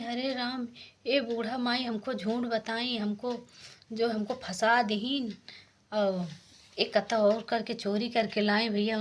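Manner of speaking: bride yelling at her mother-in-law for the trick; mild mock yell. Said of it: "चिल्लाने लगी".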